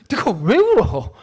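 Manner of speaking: hammed-up unsympathetic father; mock blunt dad. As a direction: wave off the tears. Father mocking his unempathetic reply.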